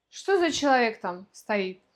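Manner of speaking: casual question with человек shortened to "chelek"; colloquial reduction. Shown as a demonstration. Example question for learners, человек said in reduced colloquial form. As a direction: swallow the middle of человек in everyday speech. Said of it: "в разговорной речи очень часто".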